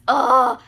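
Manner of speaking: loud, overwhelmed "ugh"; exasperated groan. Real, not acted. Reviewer overwhelmed by a favorite book, exasperated groan. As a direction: groan out loud, lost for words.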